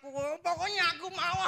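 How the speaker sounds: put-on very high wailing kid demand; screaming tantrum. Boy rolling on the mall floor at his papa, wailing. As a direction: wail like a spoiled child on the floor.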